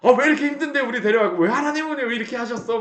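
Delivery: high, fast, loud complaint; complaining wife. Acted. Wife complaining to her husband, high and fast. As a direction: rattle off the grievance in a huff. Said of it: "옆에다가 막 이야기하면서".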